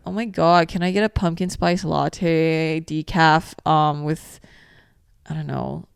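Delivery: put-on slow, drawn-out Valley girl order; Valley girl accent. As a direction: order like a Valley girl, taking your time. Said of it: "What is the Valley girl accent".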